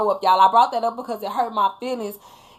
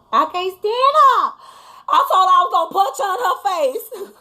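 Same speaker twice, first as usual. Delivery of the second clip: laughing; 8 semitones higher, 4 dB louder than usual. Real, not acted. Telling viewers her daughter insulted her food, laughing. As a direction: laugh it out, mock-offended.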